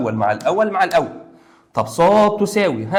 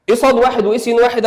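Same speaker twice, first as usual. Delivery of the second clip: confused student; 7 semitones higher, 5 dB louder than usual. Acted. Teacher voices confused student.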